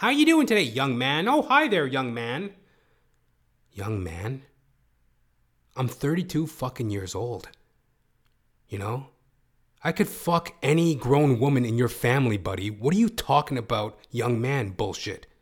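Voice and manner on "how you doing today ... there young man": high, loud, sing-song lilt. Retelling what an office coworker always says to him: imitating an office coworker. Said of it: "He's always saying that".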